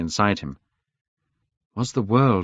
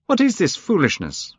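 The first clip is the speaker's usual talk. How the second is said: crying out; 10 semitones higher, 3 dB louder than usual. Acted. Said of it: "Hallward cried".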